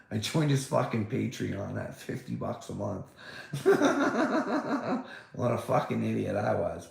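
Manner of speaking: laughing at himself mid-sentence; a self-mocking chuckle through the words. Real, not acted. Laughing at his own folly.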